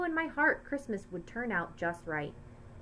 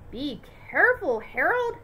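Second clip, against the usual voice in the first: louder, rising call of alarm; mom screaming; 6 semitones higher, 5 dB louder than usual. A narrator's reading. Mom screaming a warning up at dad. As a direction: call out a warning to the man on the ladder. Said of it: "I heard my mom scream".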